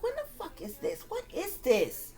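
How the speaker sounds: mad disbelief, held back in volume; getting mad. Retold or imitated. Dreamer questioning the vintage-looking scene, getting mad. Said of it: "I'm getting mad".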